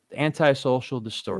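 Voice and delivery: put-on reading a chat name in a light French accent; a hint of a French accent on the name. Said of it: "why that French accent?".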